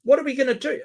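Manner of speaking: sarcastic high mock dread; mock panic. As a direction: fake terror repeated for effect. Mocking doomsday claim.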